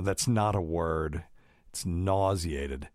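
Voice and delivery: slow, lightly attempted British accent; a hint of a proper British boss, unhurried. Recalling her British boss correcting a medical student, in a light British accent. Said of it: "in his British accent".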